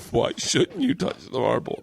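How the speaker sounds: "Why shouldn't you touch the marble" drawn out as a question; misread sign as question. Retold or imitated. Repeating the misread sign's punchline to podcast hosts, slow question. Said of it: "he thought the sign said".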